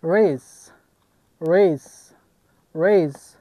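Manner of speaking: "ریز" with a gliding ay vowel. Shown as a demonstration. Teacher giving an example of A as ay, "ریز" said raise. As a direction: model "ریز" as English raise, each take apart.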